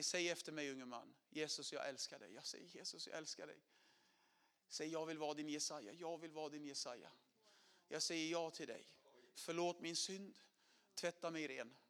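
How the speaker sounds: sinner's prayer murmured; soft prayer. Retold or imitated. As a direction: pray it softly, surrendering. Prayer of salvation, repeated softly.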